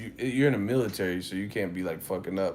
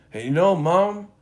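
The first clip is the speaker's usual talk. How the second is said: mock kid whine; 7 semitones higher, 7 dB louder than usual. Mock kid talking to mom.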